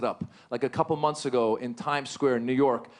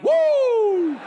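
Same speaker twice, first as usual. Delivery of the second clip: high, loud cry of relief; relieved whoop; 9 dB louder than usual. Retold or imitated. Comic hearing the bomber is named Jack, loud whoop. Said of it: "I'm like".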